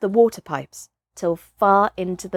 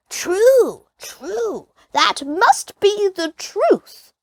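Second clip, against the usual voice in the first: put-on higher, slow voice of nodding old men; old men murmuring agreement; agreeing greybeards; 11 semitones higher, much slower than usual. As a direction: chime in as the village elders.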